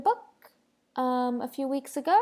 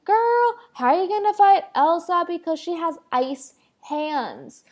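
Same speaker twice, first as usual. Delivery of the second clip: higher, louder sassy viewer voice; sassy questioning viewer; imagined viewer; 4 semitones higher, 4 dB louder than usual. Pretend. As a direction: ask like a doubtful fan. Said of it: "you're probably asking yourself".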